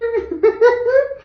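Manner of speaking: a sudden high-pitched squeal of laughter. Real, not acted. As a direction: let a high giggle burst out. Laughing at her own joke.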